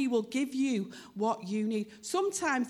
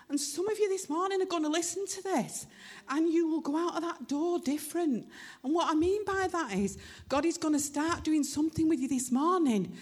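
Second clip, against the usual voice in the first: stirred, higher-pitched, heartfelt; emotional; 5 semitones higher than usual. Real, not acted. Preacher promising the congregation change this morning, emotional. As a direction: preach it through welling emotion. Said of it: "that's why I'm emotional about it".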